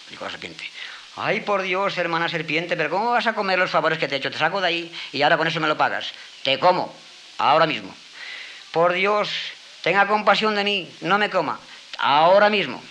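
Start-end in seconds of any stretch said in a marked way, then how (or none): 1.2-12.8 higher, louder desperate begging; pleading fox. Acted. Fox begging the serpent not to eat her, high and desperate. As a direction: plead for your life, voice climbing.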